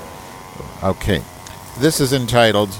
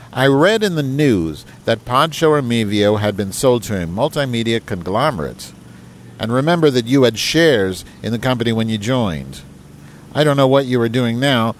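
email read aloud; 3 semitones higher than usual. Acted. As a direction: put on a proper, correspondence tone. Reads email.

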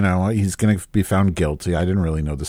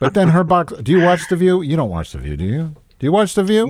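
excited; 9 semitones higher, faster than usual. Real, not acted. Excited gossip question.

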